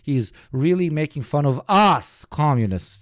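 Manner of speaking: slow, swooping mock-professor drawl; exaggerated parody of a lecturing intellectual; Jordan Peterson. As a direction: stretch the key words pompously. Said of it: "talks like this".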